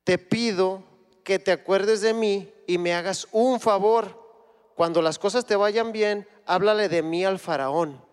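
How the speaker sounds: José begging the cupbearer to remember him; impassioned prisoner's appeal, read with full force; José pleading. Acted. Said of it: "Fíjense lo que dice José".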